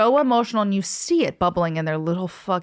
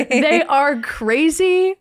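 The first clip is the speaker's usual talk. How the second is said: laughing emphatic agreement; 6 semitones higher, 5 dB louder, much slower than usual. Real, not acted.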